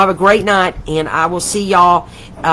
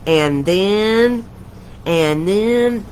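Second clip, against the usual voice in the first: drawn-out imitation of a drive-through lady; 2 semitones higher, much slower than usual. Retelling a movie's drive-through order, drawn-out mimicry. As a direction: stretch each "then" out, level and insistent. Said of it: "the drive-through lady kept going".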